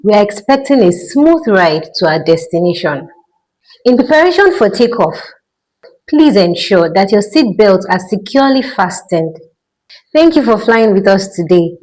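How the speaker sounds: calm cabin announcement voice; airline pilot announcement. Pretend. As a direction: speak like a pilot over the intercom. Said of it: "This is your pilot speaking".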